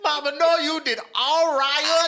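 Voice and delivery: high, laughing reassurance. Real, not acted. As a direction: laugh while reassuring her.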